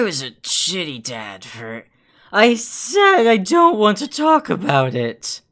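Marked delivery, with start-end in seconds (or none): 2.3-5.4 loud, cutting him off; angry outburst. Acted. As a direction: snap it out, furious. Taco cuts off Merle.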